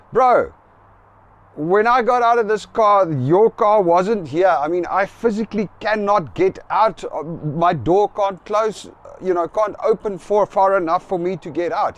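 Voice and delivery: retelling a heated protest. Retold or imitated. Arguing with the car owner.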